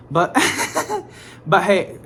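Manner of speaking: ordinary talk, nothing marked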